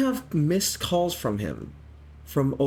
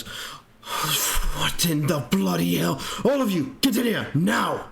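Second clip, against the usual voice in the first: put-on British old man; 3 semitones higher than usual. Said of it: "She goes".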